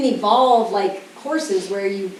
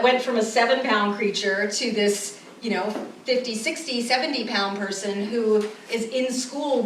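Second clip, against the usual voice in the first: calm parent. Retold or imitated. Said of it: "New paradigm would go".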